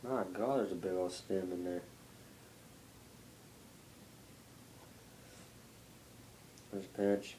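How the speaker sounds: talking around a lip of dip; chewing tobacco. Real, not acted. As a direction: mouth full of tobacco, slightly muffled. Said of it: "pack a lip".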